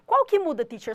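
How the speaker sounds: high, loud student question; teacher voices a student asking what changes; mock student. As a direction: ask it like a curious pupil. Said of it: "voicing a student's question".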